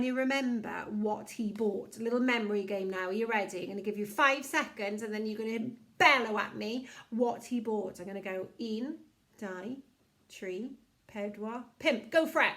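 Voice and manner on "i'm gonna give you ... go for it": put-on kids show host. Leading kids' memory game.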